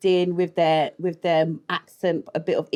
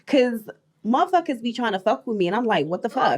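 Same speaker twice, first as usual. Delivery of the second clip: attempted American accent; 2 semitones higher than usual. Shown as a demonstration. Guest asked for it, trying an American accent. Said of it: "uh, American accent".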